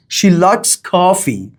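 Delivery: slow, with "She" stressed; emphasis on subject. Shown as a demonstration. Teacher showing emphasis on the subject, stress on "She". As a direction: lean on "She" in "She likes coffee". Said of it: "Emphasis on subject".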